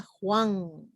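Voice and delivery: Juan en una sílaba que cae sobre la a; diptongo, énfasis en A. Shown as a demonstration. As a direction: deja la u breve y alarga la a de Juan. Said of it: "sino en la A". (Juan con toda la fuerza en la a)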